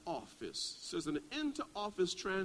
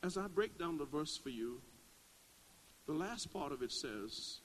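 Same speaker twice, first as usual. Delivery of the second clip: normal talking voice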